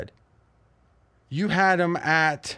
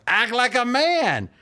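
Godfather voice; 9 semitones higher, slower than usual. Retold or imitated. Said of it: "The market was the Godfather".

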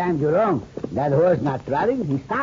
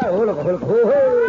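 hearty laugh; 3 semitones higher, 4 dB louder than usual. Acted. Jolly greeting laugh to senora.

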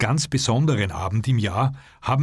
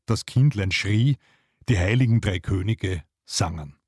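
measured verse reading with pauses between lines; poem recitation. Acted. Host reads Heine's Christmas poem to listeners, measured recitation. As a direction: recite the rhyme line by line.

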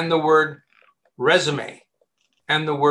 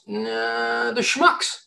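higher, scornful mock dismissal; dismissive; 5 semitones higher, much slower than usual. Job seeker writing off a bad company, mock scornful. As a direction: brush them off with a sneer. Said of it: "where you realize".

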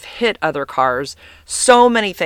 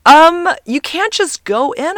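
slow, higher scolding voice; stern ranger; 13 semitones higher, 6 dB louder, slower than usual. Retold or imitated. Park ranger telling the driver she can't just enter, slow scolding. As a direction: lecture the driver like a gatekeeper.

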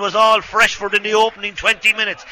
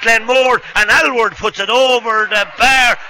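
excited commentary; 5 semitones higher than usual. Real, not acted. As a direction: call the score with a lift. Live score call, loud.

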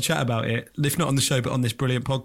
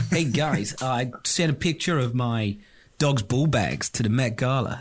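put-on South African accent; 4 semitones lower, slower than usual. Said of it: "your South African impression".

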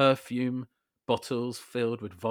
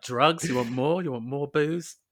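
loud, high sing-song offer; hammed-up hostess pushing more booze; mock hostess offer; 5 semitones higher, 6 dB louder than usual. Host imitating the housekeeper, a loud mock offer.

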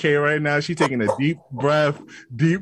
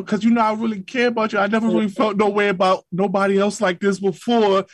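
mock tearful plea; 4 semitones higher than usual. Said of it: "she gonna break down in tears and be like".

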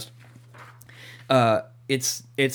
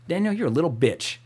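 playful taunt, a touch higher; mock insult; 4 semitones higher than usual. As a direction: tease the absent friend. Teasing insult as a test.

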